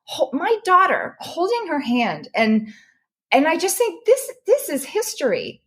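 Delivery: moved almost to tears, pushing the words out; getting emotional. Real, not acted. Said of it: "gosh, I'm getting emotional now".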